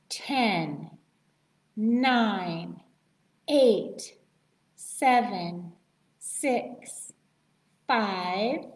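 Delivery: steady countdown to midnight; new year countdown crowd. Shown as a demonstration. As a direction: count down the seconds, building. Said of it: "Should we practice counting down from ten?".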